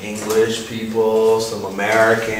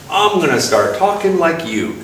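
hometown friend; 5 semitones higher than usual. Acted. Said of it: "their friends are like".

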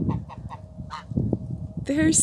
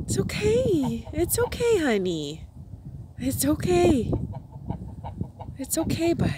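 soft soothing; 6 dB quieter than usual. Real, not acted. Calming the calf.

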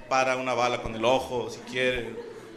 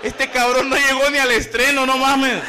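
exclaiming; 8 semitones higher, 6 dB louder than usual. Retold or imitated.

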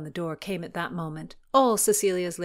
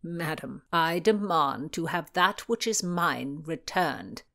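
insistent; slower than usual. Acted. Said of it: "Sir Henry insisted".

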